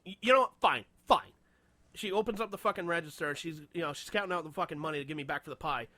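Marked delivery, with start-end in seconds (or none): 0.1-1.3 exasperated clerk. Retold or imitated. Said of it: "finally she goes".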